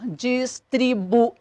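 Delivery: "distribuir" slowly split, dis-tri-bu-I; slow teacher's breakdown of "distribuir", final I alone; syllable by syllable. Shown as a demonstration. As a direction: sound out "distribuir" syllable by syllable, ending on a separate I. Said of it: "esse I de novo forma a sílaba sozinho".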